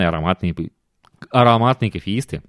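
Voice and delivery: tongue tripping over words; stumbling, tongue-tied speech. Real, not acted. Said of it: "у меня язык заплетается".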